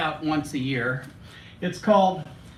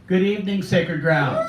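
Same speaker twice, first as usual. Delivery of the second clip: greeting called out louder to the room; 3 semitones higher, 6 dB louder than usual. Shown as a demonstration. Poet repeats his hello after the crowd calls back, louder. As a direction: make the back row hear you this time.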